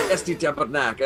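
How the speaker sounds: mild Québécois swearing; a little mad. Shown as a demonstration. Warning friends how Quebecers swear, only a little mad. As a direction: curse in French without real anger. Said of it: "they're not really that mad".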